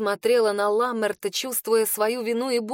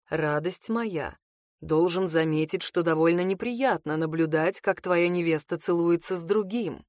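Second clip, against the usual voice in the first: sarcastic lower male voice; 5 semitones lower than usual. Acted. Rid speaks sarcastically, jealous.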